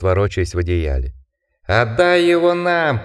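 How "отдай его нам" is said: higher, slow howling taunt; laughing, howling voice. Acted. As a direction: howl it out with a cackle. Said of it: "смеющийся и подвывающий". (смеющийся, подвывающий голос)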